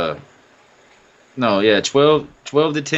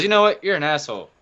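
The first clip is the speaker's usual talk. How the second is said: slightly higher-pitched imitated customer; annoyed customer; 5 semitones higher, faster than usual. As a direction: lightly mimic a fed-up woman. Retells angry drive-thru customer's insult.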